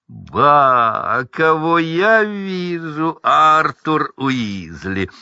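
slow, drawn-out mock greeting; sneering Lucius. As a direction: savour the surprise with contempt. Люциус Малфой глумится. (медленное надменное приветствие Люциуса)

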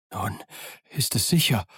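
panting out the words; breathless with fright; gasping. Acted. A scared pirate pants to the others, gasping. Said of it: "keuchte einer von ihnen".

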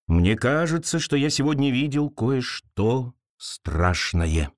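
slow, hollow spooky voice; lightly spooky ghost-story tone; загробный голос. Acted. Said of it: "загробным голосом произнёс Тум". (загробный голос)

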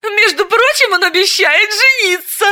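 high, playful boast with a falling «прочим»; flirty brag; coquettish. A narrator's reading. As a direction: tease her friend with the news. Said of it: "кокетливо сообщила".

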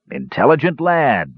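a touch of dwarfish approval; approving. A narrator's reading. Dwarf praising the young mage, approving. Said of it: "said the dwarf approvingly".

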